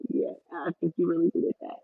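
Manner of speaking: muffled, like through a wall; muffled audio. Real, not acted. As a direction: voice dulled by a bad mic. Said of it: "you sound muffled".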